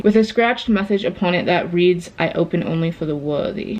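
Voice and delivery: reading aloud in a put-on British accent; measured, lightly assumed British accent. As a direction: read the quiz like a British storyteller. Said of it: "I don't know why I'm doing an accent".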